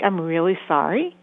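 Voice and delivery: a lightly voiced sincere "I'm really sorry"; just a touch of real sincerity; authentic apology. Therapist showing parents a sincere sorry, understated. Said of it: "Is it an authentic".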